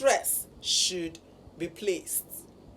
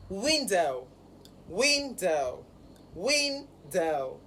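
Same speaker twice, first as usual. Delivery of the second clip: "window" drawn into two parts, stress on WIN; first-syllable stress; 2 semitones lower, much slower than usual. Shown as a demonstration. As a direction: teach "window" with WIN stressed, dow falling away. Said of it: "the stress is on the first syllable".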